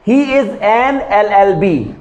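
slow, careful English model sentence; teacher spells out the example word by word. Shown as a demonstration. Teacher to students, slow careful demo. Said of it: "मतलब कि उसकी qualification".

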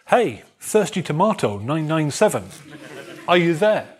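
laughing through the silly network name; can't keep a straight face while voicing the phone; real laugh breaking into a mock call. Real, not acted. Amused reading of silly network names.

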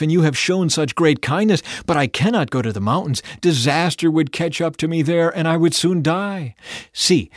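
loud, high pleading; earnest begging. A narrator's reading. Lot begging the angel to let him go to the village, earnest pleading. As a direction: plead hard for another way. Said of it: "Lot begged".

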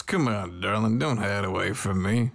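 light Southern drawl, sweet-talking; a hint of a Southern belle drawl. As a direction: coax her in a lazy Southern drawl. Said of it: "I have a southern drawl".

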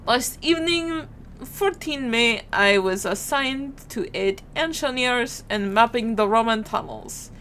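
put-on amateur French accent with a Russian slant; bad French accent. Player reading a sergeant's report, bad French accent. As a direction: attempt a French accent and miss. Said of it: "I can't do a French accent".

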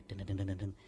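very soft, low repeated "deng"; tiny creeping sound effect; imitated crawling. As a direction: patter it quietly, low in the voice. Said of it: "ada gayang".

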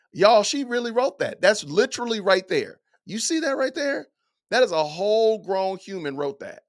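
loud, high, incredulous; can't believe it's real; exasperated disbelief. Real, not acted. Disbelief at the quoted line.

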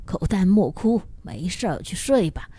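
grandma quietly calming her grandson at night, softly. A narrator's reading. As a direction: soothe the little boy back to bed in a low voice. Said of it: "小声道".

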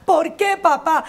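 put-on a girl protesting to dad; lightly voiced child; childish why. Daughter questioning her father.

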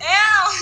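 high mock cat yowl; high yowl without real force; imitated cat scream. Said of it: "it was screaming like".

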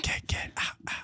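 voiceless, soft mock-menacing warning; creepy whisper. Griefer outside the cabin door, creepy mock whisper. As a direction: whisper it in short creepy bursts.

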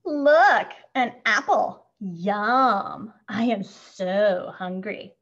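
greedy, gleeful bully; a touch of smug delight. A narrator's reading. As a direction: relish the find, stretching out hungry. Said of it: "Benny says with delight".

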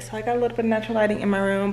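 quick, rushed chatter; talking fast. Real, not acted. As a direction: rattle it off in a hurry. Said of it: "I know I'm talking fast".

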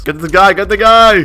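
excited in-game call; urgent call-out. Real, not acted. Calling out during a game rush.

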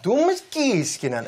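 put-on "Thomas Kiskinen" slowly, with the synthesizer's foreign accent; mimicking computer pronunciation. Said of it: "så kommer datorn berätta". ("Thomas Kiskinen" långsamt härmat efter talsyntesen)

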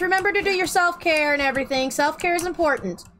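effusive thanks. Real, not acted. Streamer thanks a raider effusively.

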